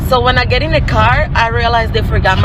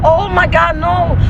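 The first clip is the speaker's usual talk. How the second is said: flustered denial; 7 semitones higher, slower than usual. Retold or imitated. Waitress caught out, denies it.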